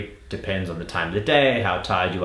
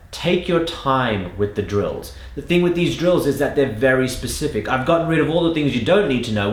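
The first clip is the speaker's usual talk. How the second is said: ordinary talk, nothing marked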